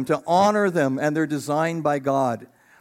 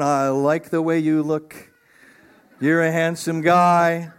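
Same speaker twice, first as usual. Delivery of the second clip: admiring Eve; slower than usual. Pretend. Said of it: "she's going".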